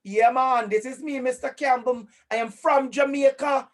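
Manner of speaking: lively, proud Jamaican accent. Shown as a demonstration. Introducing himself to the class, Jamaican accent. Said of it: "you're listening to my Jamaican accent".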